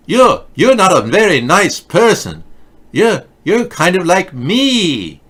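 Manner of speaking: hammed-up scolding teen voice; mock whiny Greta. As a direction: drag out the insult like a sulking child. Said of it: "Everything she says is angry".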